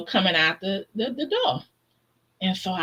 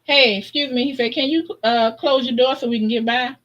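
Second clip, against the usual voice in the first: real nice; 4 semitones higher than usual. Retold or imitated. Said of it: "real nice".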